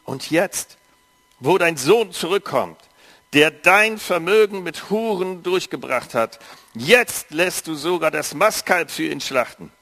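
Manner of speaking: a touch of resentment, pushed out harder; elder son bitterly reproaching his father, mildly heated. Acted. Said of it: "entgegnete ihm bitter".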